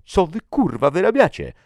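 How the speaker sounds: furious, high-pitched full shout; thundering. A narrator's reading. Captain confronts his soldiers as they turn on each other, thundering. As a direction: explode at the men under your command. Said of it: "zagrzmiał Svensson".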